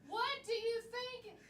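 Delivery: a hint of a Kentucky farmer; Kentucky accent.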